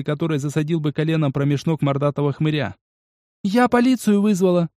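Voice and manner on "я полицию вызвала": high cry; shouted warning. Acted. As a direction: call it out to warn them. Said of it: "раздался крик Аяки".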